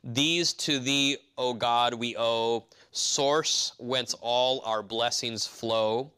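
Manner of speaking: very slow, deliberate hymn words; solemn slow recitation; hymn verse recited. Shown as a demonstration. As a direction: lay out each word like a hymn line. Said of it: "it says".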